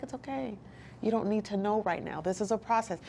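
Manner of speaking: soft, soothing mentor; lightly acted, hushed reassurance; imitated patient reassurance. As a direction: gently talk someone down from frustration. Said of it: "just slow hand just walking me through".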